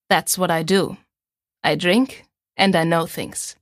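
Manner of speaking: a hint of a wry Tyrion quote; Tyrion Lannister. Chat partner quoting his favourite character, lightly voiced and wry. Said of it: "Tyrion Lannister".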